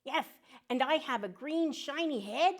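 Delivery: high, cheerful cartoon duck voice; a chirpy little duck saying hello to kids; friendly duck puppet.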